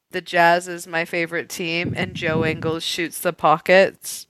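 faint attempt at an Australian accent; understated, sober stab at Aussie; barely-there Australian accent. Shown as a demonstration. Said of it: "in a Australian ac-, accent".

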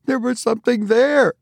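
high, ominous certainty; eerie insistence. A narrator's reading. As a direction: insist on the uncanny. Tabitha tells a ghostly tale.

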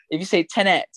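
Tenet with the second syllable stressed; demonstrated Tenet. Shown as a demonstration. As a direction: say Tenet like ten-NET. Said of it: "it doesn't have that impact".

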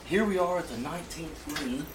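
soft, hushed golf announcer; golf commentator. Acted. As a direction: murmur it like calling a putt. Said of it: "You have the perfect golf announcer voice".

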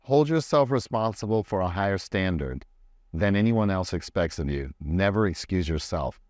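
slow, measured read-aloud; quote reading. Acted. Host sharing the quote of the day, slow deliberate reading.

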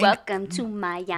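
put-on slow Miami accent. The speaker plays along with the Miami accent. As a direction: draw out a Miami welcome accent. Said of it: "Miami definitely has an accent".

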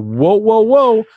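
rising high-pitched interjection; retold alarm. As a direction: halt them in mock alarm. Retold alarm, stopping radio call.

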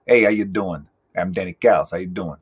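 a hint of a Chicago guy like Moe from The Simpsons; casual Chicago accent greeting, only lightly put on; Danny Callis impression. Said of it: "He sounds like Mo from The Simpsons".

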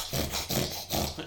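voiceless, repeated noisy bursts; Wilson's wordless noise. Acted. Wilson reacting to the order, voiceless noisy bursts. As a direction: make rapid wordless creature noises. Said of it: "See, Wilson goes".

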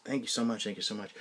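soft, understated retold thanks; thankful. Dog walker thanking a man for a bag, softly grateful. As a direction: repeat the thanks quietly, gratefully. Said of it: "I was so thankful".

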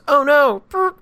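high, loud cartoon dismay; mock dismay. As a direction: squeal it like a busted cartoon character. Acts cartoon trumpeter caught by cop.

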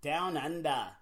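lightly put-on Australian accent; mock Australian accent. Host echoing co-host for Australian listeners, light Australian accent. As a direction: echo it with a playful Aussie twang. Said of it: "all the Australian I know".

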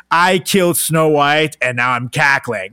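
slow, mock villain cackle voice; cackling villain. Shown as a demonstration. Mocking a friend's laugh, slow mock villain voice. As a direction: ham it up like an evil witch. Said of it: "that is like".

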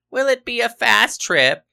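high-pitched traveller's query; inquisitive customer. A narrator's reading. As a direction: pester the clerk with an eager question. Imagined woman quizzing the clerk.

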